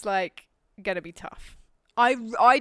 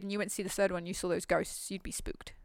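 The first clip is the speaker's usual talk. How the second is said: spooky whisper; 4 semitones lower, 10 dB quieter than usual. Pretend. Spooky kid scenario.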